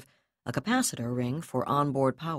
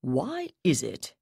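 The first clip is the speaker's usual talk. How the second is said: conversational; slower than usual. Acted. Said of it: "Terekhov asked conversationally".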